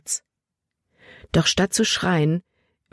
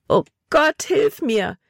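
desperate cry; 9 semitones higher, slower than usual. Acted. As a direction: cry out to God in despair. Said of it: "rief sie verzweifelt". (verzweifelter Hilferuf, hoch und lauter)

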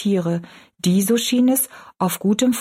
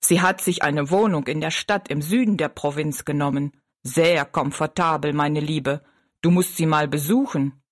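giant; 4 semitones lower than usual. Acted. Giant reassures.

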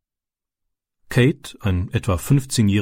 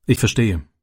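friendly. A narrator's reading. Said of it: "sagte der Bauer freundlich".

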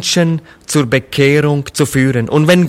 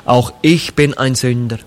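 humble prayer. Acted. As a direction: pray it simply and humbly, as a confession. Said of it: "in einem ganz einfachen Gebet sagt". (leises, demütiges Gebet eines Sünders)

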